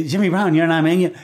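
quick rushed finish-line call; too-fast announcer call. Retold or imitated. Announcer rushing a finisher's name over the crowd. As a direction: rattle the name off in a hurry. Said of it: "getting it out in too fast".

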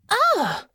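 high sharp frustrated cry; frustrated growl. A narrator's reading. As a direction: burst out in frustration. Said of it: "Honor growled in frustration".

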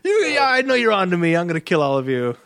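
half-hearted movie crook threatening everyone; mock paranoid gunman. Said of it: "his stance was".

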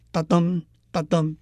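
哒噔 as separate weak-strong pairs; a short 哒, then a weightier 噔, evenly spaced; light-heavy beat. Shown as a demonstration. Teacher pointing out the meter, light-heavy 哒噔 beats. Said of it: "请注意每一行里头".

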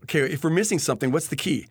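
light sarcastic jab, a bit quick; sarcastic mocking. Mocking his friend's question, lightly sarcastic. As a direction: needle him with mild sarcasm. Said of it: "reading it sarcastically, kinda mocking him".

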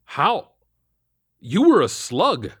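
can't believe your eyes; shocked. A narrator's reading.

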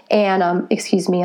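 talking between sips of tea; a sip of tea mid-sentence; while sipping a drink. Real, not acted. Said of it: "I'm drinking my Arbonne Detox tea".

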